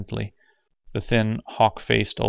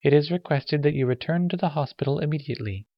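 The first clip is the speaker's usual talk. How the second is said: high, distant PA announcement; 7 semitones higher, faster than usual. A narrator's reading. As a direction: read it like a loudspeaker call. Announcement over hospital speaker.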